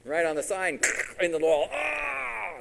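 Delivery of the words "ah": high, drawn-out "ah"; mock cry of pain. Rider with leg against the wall, mock pained cry. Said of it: "Now he's really mad at the donkey".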